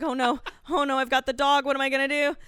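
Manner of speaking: mildly frantic worried questions; hyperventilating panic, retold. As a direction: act out a flustered oh-no moment. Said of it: "I'm, like, hyperventilating".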